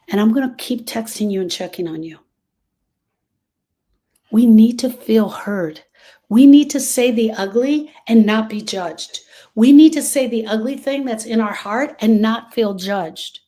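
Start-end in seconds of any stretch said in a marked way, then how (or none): 4.3-13.4 louder, emphatic declaration; impassioned plea. Real, not acted. Urging grieving listeners to be heard, loud and emphatic. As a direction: drive the point home hard.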